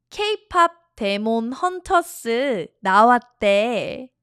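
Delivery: K-pop said the Korean way, as keipap; English loanword in a Korean accent. Shown as a demonstration. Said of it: "Oh, I'm doing the Korean accent".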